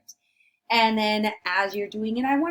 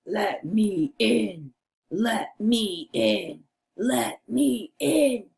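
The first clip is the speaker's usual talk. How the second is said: slow, insistent storybook wolf; drawn-out wolf demand; big bad wolf. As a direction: lightly play a wolf demanding entry. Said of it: "does the wolf say".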